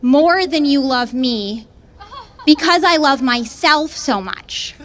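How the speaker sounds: slow, self-satisfied ex's voice; lightly voiced smug boyfriend, slowed down; narcissist boyfriend. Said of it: "He was like".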